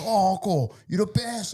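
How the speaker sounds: put-on high-pitched gushing kid voice; admiring kids. Friends praising the dad at school drop-off, high and gushing.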